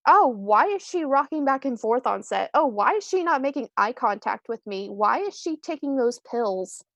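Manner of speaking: lightly mimicked nosy questioning; mock judging onlookers. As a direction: imitate puzzled onlookers with swooping, lilting questions.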